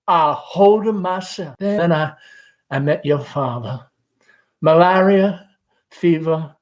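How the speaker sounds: lost in a giddy memory of spring; Amanda's girlhood memories. Acted. Mother recalls her courting days, dreamy and lilting.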